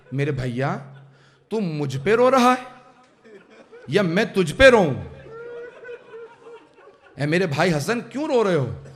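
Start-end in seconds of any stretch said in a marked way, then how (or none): 0.1-4.9 mournful lament. Retold or imitated. Hasan's lament to brother.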